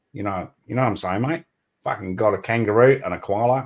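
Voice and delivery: broad mock Aussie twang; stereotyped Australian accent. How the world hears Australians, broad Australian accent. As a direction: play up the Aussie clichés. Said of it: "Australians just sound like that".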